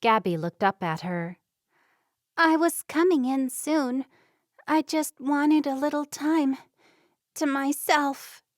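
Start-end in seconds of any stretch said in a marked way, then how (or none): 2.3-8.4 put-on higher, halting words of a girl who has been crying; choked up, trying to sound fine; broken, teary voice. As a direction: hold back tears as you speak. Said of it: "Her words were broken".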